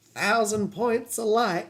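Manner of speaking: lightly voiced Dana Carvey Bush, slow and clipped phrases; a hint of the elder Bush, drawn out; George H W Bush impression. Host imitates Carvey's elder Bush for chat, lightly voiced. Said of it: "That's more Dana Carvey doing George H W Bush".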